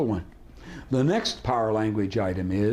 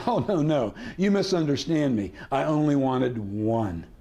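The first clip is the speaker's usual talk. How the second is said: feigned misunderstanding. Shown as a demonstration. Feigned misunderstanding as negotiating flinch.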